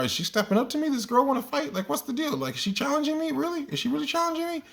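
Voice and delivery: high, hammed-up lion-king showdown voice; lightly voiced Scar sizing up a rival; mock Scar challenge. Teacher acting out a Mufasa-Scar standoff with student, mock villain. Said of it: "pulling a Scar moment".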